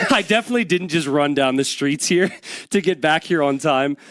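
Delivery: out of breath, laughing between words; out of breath after running back. Real, not acted. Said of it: "I'm a little bit out of breath".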